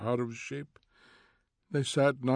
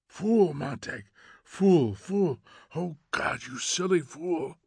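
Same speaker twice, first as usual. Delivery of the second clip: scolding; 5 semitones higher, slower than usual. Acted. Faber scolding in his ear.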